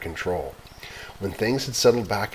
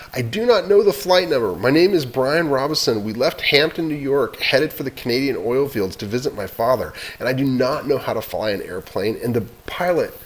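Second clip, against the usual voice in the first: higher, louder urgent careful report; 5 semitones higher, 5 dB louder than usual. Acted. Boy giving his name and route to the radio, urgent. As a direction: spell it out, desperate.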